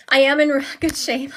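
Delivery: laughing through the words. Real, not acted. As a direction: chuckle as you say it. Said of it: "Like if you do any kind of a stress test".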